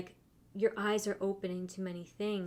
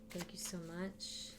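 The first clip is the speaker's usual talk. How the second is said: quiet thanks; 9 dB quieter than usual. Real, not acted. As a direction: say thanks softly, almost to yourself. Thanking guides under her breath.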